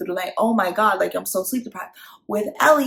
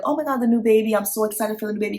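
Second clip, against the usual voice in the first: lightly raised, quick gushing excitement; gushing over the new baby; 3 semitones higher, faster than usual. Shown as a demonstration. Mom gushing to others about the new baby, mock excited. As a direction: mom gushes about the baby, not the child. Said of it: "instead of saying".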